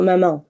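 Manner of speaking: "mamá" con la última vocal nasalizada; vocal final nasal. Shown as a demonstration. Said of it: "solo que es nasal". ("mamá" a la francesa, final nasal)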